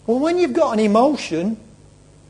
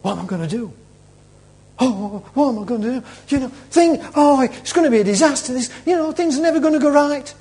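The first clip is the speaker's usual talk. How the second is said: mild, higher-pitched fretting; acted panic; 5 semitones higher, faster than usual. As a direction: worry aloud, building into a fluster. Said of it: "And you're in panic".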